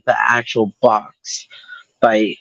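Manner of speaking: slow careful whisper. Real, not acted. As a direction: breathe the words. Careful while opening the box.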